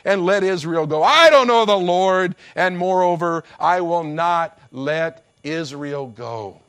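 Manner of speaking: rising to a loud defiant shout; scornful king refusing, shouting at the peak; defiant Pharaoh. Acted. Pharaoh refusing Moses, loud defiant shout. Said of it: "But Pharaoh said".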